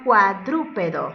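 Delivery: "cuadrúpedo" drawn out in separate syllables. Shown as a demonstration. Teacher presenting an example word, "cuadrúpedo" carefully divided into syllables. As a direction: sound out "cuadrúpedo" for counting. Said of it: "Tiene cuatro sílabas".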